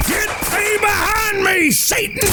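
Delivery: high frantic holy yell; frantic shout. Acted. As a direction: cast out the devil in terror. Brother shouts at imagined devil.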